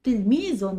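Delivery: "تلميذ" with a sounded -un ending; tanween demo. Shown as a demonstration. Teacher repeats the word for students, "تلميذ" ending in a sounded -un. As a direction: let the noon ring at the end of "تلميذ". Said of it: "والتنوين دي عبارة عن نون بتنطق".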